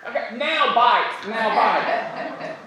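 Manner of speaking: high little ant voice with a laugh; squeaky ant signalling the attack; ant's voice. Retold or imitated. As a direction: give the cue like a gleeful tiny ant. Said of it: "it's like he was going".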